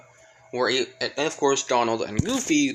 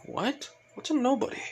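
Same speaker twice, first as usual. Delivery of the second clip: shocked; 11 semitones higher, 4 dB quieter than usual. Retold or imitated. Izuku shocked by Naminé.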